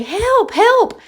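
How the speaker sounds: high, loud squawking parrot cries; parrot yelling help. Retold or imitated. Talking bird copying a cry for help, high squawk. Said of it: "one of 'em will yell for help".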